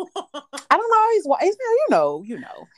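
laughing while explaining to friend. Real, not acted. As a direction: giggle out the excuse. Laughing over "white shit.

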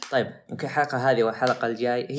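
words breaking into laughter; laughing through it. Real, not acted. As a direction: try to say it but keep laughing. (يضحك أثناء الكلام)

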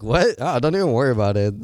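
high, loud startled "What?" then quick easy brush-off; surprised mom. Retold or imitated. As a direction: play mom caught off guard, then waving it away fast. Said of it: "she's like".

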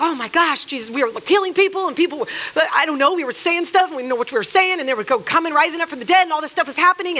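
breathless, fast, gushing report; excited disciples. Retold or imitated. Disciples to Jesus, fast and gushing with excitement. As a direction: tumble the words out in wonder.

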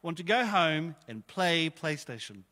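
slow, reluctant admission; whiny prayer. Retold or imitated. Pastor retells his lazy prayer in the car, slow and sulky. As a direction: drag the words out like a sulky child. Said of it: "I said this out loud, I said".

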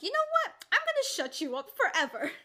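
high-pitched mock villain threat, racing at the end; villainous threat. Friend retelling the book, voicing Verity's sinister threat. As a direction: ham up a scheming mother's threat. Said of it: "Verity was like".

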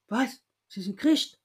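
a touch of amazed disbelief; astonished. Retold or imitated. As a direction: re-enact a stunned rector's question. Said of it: "der war total von den Socken".

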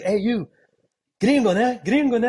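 put-on high teasing kid voice; imitating a local kid. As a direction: mimic the kid taunting the gringo. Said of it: "He's like".

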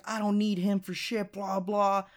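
high mocking imitation of a dismissive girl; mock dismissive retort. Girl brushing off a dig about the absent dad, mock dismissive.

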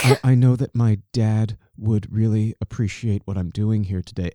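a hint of a stiff, nervous reader; awkward reading. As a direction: read it like a nervous witness. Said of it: "awkwardly reading his paper".

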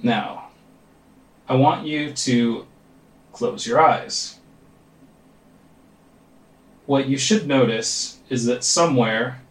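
calm, measured meditation guide with long pauses; guided meditation. Real, not acted. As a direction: lead them gently into focus, leaving space between phrases. Leads a meditation.

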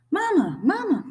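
put-on high, tiny baby-bird voice; little high-pitched chick calling out; peeping gosling. A narrator's reading. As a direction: peep it like a newly hatched gosling. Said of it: "peeped the gosling".

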